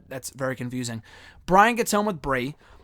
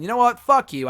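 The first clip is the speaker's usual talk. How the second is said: mock angry outburst; 7 semitones higher, 5 dB louder than usual. Real, not acted. Telling off the booing fans.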